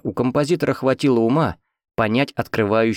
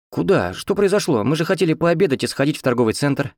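higher-pitched, puzzled questioning; bewildered wife; 6 semitones higher than usual. A narrator's reading. Wife dragged away by husband before lunch, bewildered. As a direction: protest in surprise as a lightly voiced wife.

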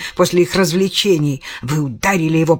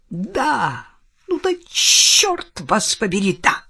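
mild mock cry-out; 4 semitones higher, slower than usual. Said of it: "выкрикнула Келли".

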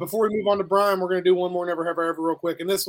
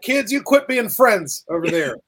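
mock stern teacher; 4 dB louder, slower than usual. Mocking the strict teacher.

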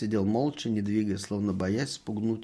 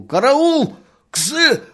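very high, loud sleeping yell; barked yell; 11 dB louder, much slower than usual. A narrator's reading. Merchant shouting in his sleep, loud and high. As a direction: holler for help in a nightmare. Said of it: "гаркнул".

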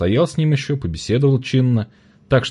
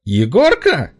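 high, loud disbelieving call; a street trader shouting across the market; shrill market woman calling out; 8 semitones higher, 4 dB louder, much slower than usual. A narrator's reading. Market woman spotting a boy in the crowd, calling out high and loud. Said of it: "неверяще кликнула ... пронзительным голосом".

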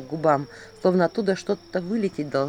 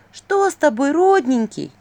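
высоко и громко, сладко; засюсюкай притворно; притворная забота; 9 semitones higher, 7 dB louder, slower than usual. A narrator's reading. (двойник притворно жалеет князя, высоко)

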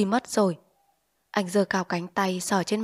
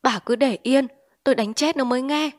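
angry; 5 semitones higher, 4 dB louder than usual. Acted. Husband raging, smashing cabinet.

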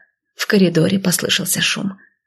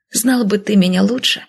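ordinary delivery, nothing marked

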